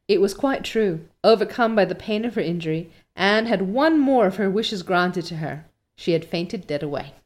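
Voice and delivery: measured, expressive storytelling; story narration. A narrator's reading. Reader telling listeners of Anne's fall, story narration. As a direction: read it like an audiobook narrator. Reads the novel aloud.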